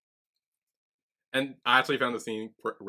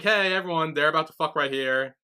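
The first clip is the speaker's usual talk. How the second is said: raised-pitch mock announcement; calling for attention; 4 semitones higher, 3 dB louder than usual. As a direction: announce it to the whole crowd, lightly acted. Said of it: "he gets everyone's attention".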